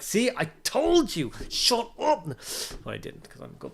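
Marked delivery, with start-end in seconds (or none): 0.0-2.3 much higher, louder mock taunt, slow at first; hammed-up know-it-all rubbing it in; snarky gloating guy. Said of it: "So he'd be like".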